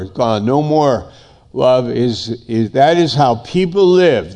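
preacher building insistence; impassioned preaching. Acted. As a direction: hammer out each refrain with fervor. Preaches at full force.

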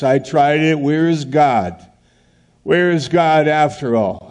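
a hint of a hurt, doubting churchgoer; voicing a disillusioned believer. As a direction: repeat the complaint with growing frustration. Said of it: "They say".

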